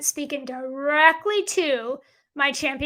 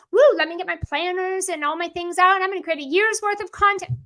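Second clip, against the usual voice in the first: mock eagerness; 3 semitones higher, 3 dB louder than usual. Coach mocking year-ahead content planners, mock excitement.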